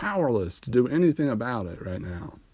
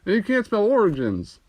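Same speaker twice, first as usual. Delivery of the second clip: incredulous shout; 9 semitones higher, 3 dB louder than usual. Retold or imitated. Comedian mocking a misspelled transcript, incredulous high-pitched shout. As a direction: yell in disbelief at the transcript. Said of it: "I'm like".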